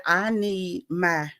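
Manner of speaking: imitating a calm, measured explanation; calm retelling. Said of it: "calmly expressing to her".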